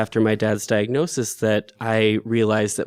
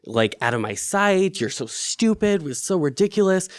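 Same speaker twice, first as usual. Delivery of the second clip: higher, self-scolding, mock angry at herself; retold self-anger; 3 semitones higher than usual. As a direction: berate yourself, half-acted. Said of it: "I'm mad at myself because I'm like".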